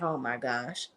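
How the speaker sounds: a deadpan, disbelieving groan of a line; low muttered oh my gosh; deep, quiet "oh my gosh". Retold or imitated. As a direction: drop way down low and quiet, exasperated. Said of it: "And I'm like".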